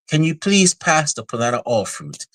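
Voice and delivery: high-pitched polite diner's request; upscale restaurant diner. Retold or imitated. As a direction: imitate a genteel diner in a commercial. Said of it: "some kind of upscale restaurant".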